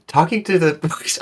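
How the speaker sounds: put-on drifting into a French accent while laughing; slipping into a French accent; accidental French accent. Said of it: "I keep trying to mimic it for some reason".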